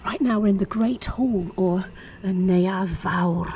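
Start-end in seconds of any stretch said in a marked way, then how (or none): 1.6-3.5 Neuadd Fawr said slowly in Welsh; Welsh name. Shown as a demonstration. Vlogger naming the hall in Welsh, careful slow Welsh pronunciation. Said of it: "if you want to say it in Welsh".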